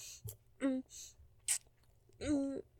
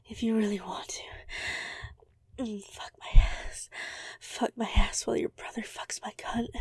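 whispering; 4 dB louder than usual. Acted. Breathy whispered dirty talk.

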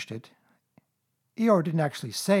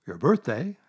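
great surprise; 3 dB louder than usual. Acted. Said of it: "said Pooh in great surprise".

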